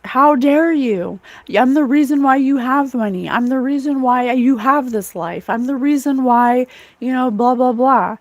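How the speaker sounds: emphatic mock outrage, stretched opening; retold pissed-off rant. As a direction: act out his indignation with some force. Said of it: "He was pissed".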